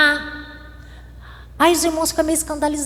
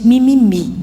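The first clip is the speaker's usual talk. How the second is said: a whiny mimimi; mock a crybaby's whine; a light mocking whine; mock whining; 2 semitones lower, 3 dB louder than usual. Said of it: "faz cara assim de crente".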